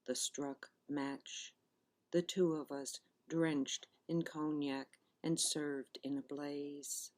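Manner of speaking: measured recital, pausing between phrases; poetry reading. Acted. Poet reading her plum pudding love poem to listeners, measured recital. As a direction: read it as verse, each image set apart by a pause.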